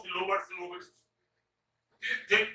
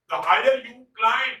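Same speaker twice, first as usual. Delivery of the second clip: slow, louder climb on higher; slow stressed example; 4 semitones higher, 6 dB louder, much slower than usual. Shown as a demonstration. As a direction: draw out the higher you climb. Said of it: "H I जी H E R". (धीमे से, higher पर ज़ोर)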